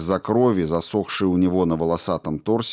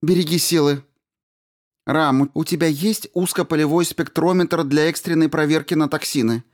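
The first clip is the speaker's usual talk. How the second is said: higher, firm voice of the commander; commanding woman; 7 semitones higher than usual. A narrator's reading. Commander Rao orders the crew over the radio, firm and high. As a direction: give the order crisply.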